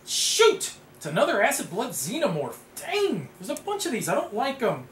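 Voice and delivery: high-pitched, exaggerated alarm; hammed-up high dismay; playful dismay. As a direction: yelp in mock frustration at a nasty surprise. Mock dismay at drawing a xenomorph.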